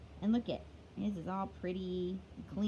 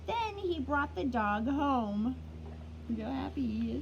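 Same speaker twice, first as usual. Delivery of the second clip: storybook reading. A narrator's reading. Teacher reading a picture book to kids, lively storytelling. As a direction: read it like story time for little ones.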